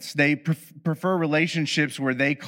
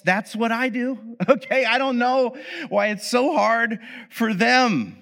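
mock smug; 9 semitones higher than usual. Playing the avoidant type.

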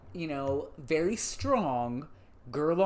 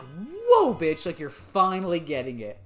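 excited. Retold or imitated. Excited quote of a character.

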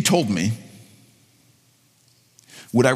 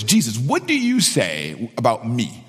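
low, slow prayer; 6 semitones lower, slower than usual. Shown as a demonstration. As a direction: ask it slowly, low in the voice. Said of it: "I begin with a question like this".

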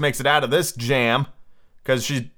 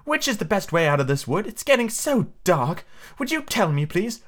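higher, polite request; courteous storybook girl, pitched up; very polite Alice; 6 semitones higher than usual. A narrator's reading. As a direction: ask politely in a lifted voice. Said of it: "Alice said very politely".

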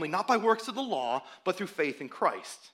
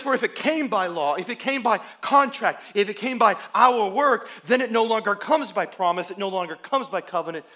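loud; 3 semitones higher, 7 dB louder than usual. Retold or imitated. Paul's argument, rising with each clause.

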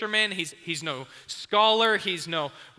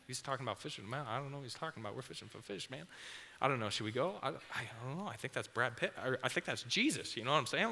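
much softer and lower, a nervous huddled murmur; hushed panicky whisper; 3 semitones lower, 8 dB quieter, faster than usual. Pretend. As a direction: whisper it like two scared brothers conspiring. Brothers whispering, deciding to follow.

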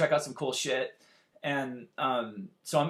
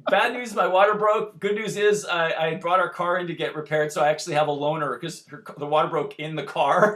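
laughing retelling; 4 dB louder than usual. Retold or imitated. Wife's news, laughing.

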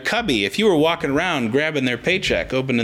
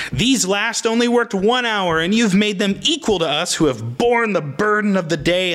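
mildly acted complaint, pitched up; complaining; 5 semitones higher than usual. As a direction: protest the unfairness in a higher voice. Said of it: "They offer a complaint".

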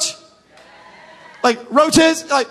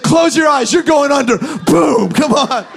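urgent command; 4 dB louder than usual. Retold or imitated. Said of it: "I said".

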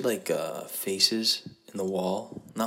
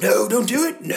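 high, loud cry of no; pleading group member; 12 semitones higher, 6 dB louder than usual. Pretend. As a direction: beg him not to, in a squeaky voice.

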